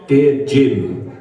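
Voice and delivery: put-on slow, earnest reading of a child's letter; reading childhood letter. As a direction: read it like a hopeful kid. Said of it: "it started off like this".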